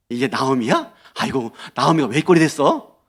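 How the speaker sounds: mildly pitying, disapproving dismay; reproach and lament. Shown as a demonstration. Townswomen shocked at Naomi's ruined appearance, lamenting. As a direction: lament with a touch of blame. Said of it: "비난과 탄식이다".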